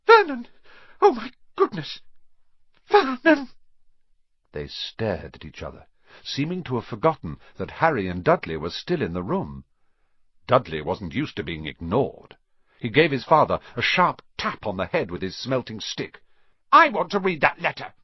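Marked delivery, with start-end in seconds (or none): 0.1-3.5 high panicked shriek; choking shriek of alarm. A narrator's reading. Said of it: "made a choking noise". 16.7-17.9 high loud whiny demand. A narrator's reading. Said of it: "he said loudly".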